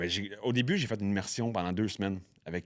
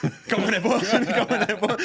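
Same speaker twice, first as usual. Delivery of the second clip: laughing through the words, higher and louder; can't stop laughing as he tells it; breaking into laughter mid-story; 12 semitones higher, 6 dB louder, slower than usual. Real, not acted. Laughing retelling of his surprise.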